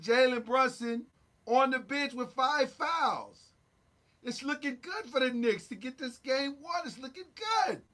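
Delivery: rough attempt at a New York accent; put-on New York accent. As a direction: play it up as an excited New Yorker with the accent. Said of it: "I mean, my New York accent right now".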